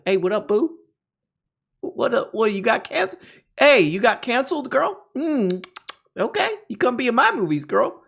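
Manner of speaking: high, sing-song smooth-talker parody; mock flirty voice.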